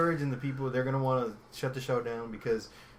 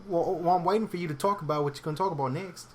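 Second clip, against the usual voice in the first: dodgy put-on British accent, higher; British accent on a dare; 5 semitones higher, 3 dB louder than usual. Co-host stalling after being told to say more, British accent. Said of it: "I'll speak in a British accent".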